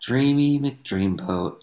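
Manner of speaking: slow, drawn-out dreamy delivery; swooning. Real, not acted. Host gushes about a handsome actor, slow swooning. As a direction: stretch it out like you're swooning.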